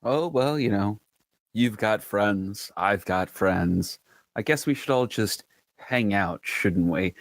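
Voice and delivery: slow, self-satisfied needling; smugly pleased. Acted. Rode goading an annoyed Carver, smug. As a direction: savour how much you annoy him. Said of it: "cat that got the cream".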